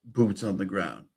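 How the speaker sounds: loud, slow sarcastic stress on boots on the ground; mock the phrase, slowly and pointed; mocking emphasis. Streamer mocking the self-proclaimed boots on the ground, sarcastic.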